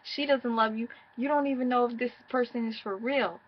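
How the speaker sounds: begging ex. Retold or imitated. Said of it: "I was begging".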